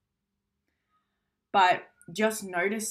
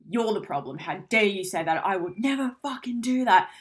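triggered partner snapping back defensively; mock angry attack; 4 dB louder than usual. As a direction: hurl the blame back. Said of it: "breathe fire all over them".

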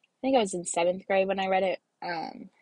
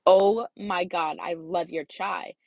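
slow, drawn-out gush over a favourite; mock-sincere rave, stretching the words; slower than usual. Gushing white lie to customer, retold.

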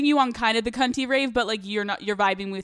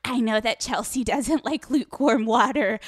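starstruck superfan. Retold or imitated. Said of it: "I'm like a freak fan over here".

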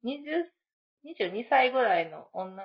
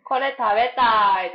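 put-on childlike voice; 2 semitones higher, 10 dB louder, slower than usual. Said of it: "子供みたい".

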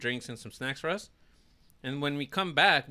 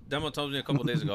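voice cracking; faster than usual. Real, not acted. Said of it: "Voice crack".

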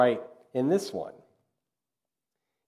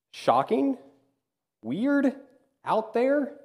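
each word pitched much higher, drawn out; incredulous emphasis; 11 semitones higher, slower than usual. Real, not acted. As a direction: marvel at how strange they are. Reacting to violent psalms.

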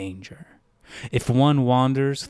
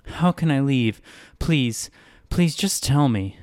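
pleading; 4 semitones higher than usual. Acted. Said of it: "Wren pleaded with the greeter".

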